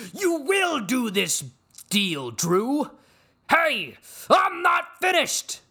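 slow, booming theatrical shout pitched very high; hammed-up insane tirade; Logan Roy. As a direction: roar the order like a raving tyrant. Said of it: "that was the ramblings of an insane person".

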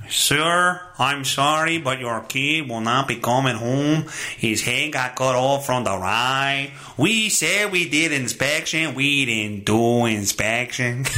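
a lightly voiced Mexican official breaking bad news; vague Mexican accent. Lightly accented official telling a parent the news. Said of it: "I don't know who, what accent that is. It may be Mexican".

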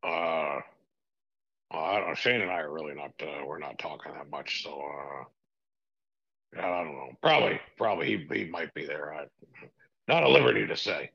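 lightly voiced evasive old boss; a hint of a cagey tycoon dodging; Vince McMahon impression.

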